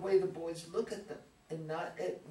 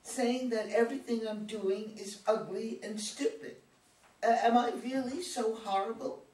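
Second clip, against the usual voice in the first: louder, tearful protest; tearful anger; 3 semitones higher, 5 dB louder than usual. Acted. Daughter crying angrily at her father. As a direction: fight back tears while accusing him. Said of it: "rolls up with tears of pain and anger".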